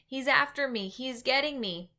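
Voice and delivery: sleeping giant crying out in fear; terrified. A narrator's reading. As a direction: plead in rising panic.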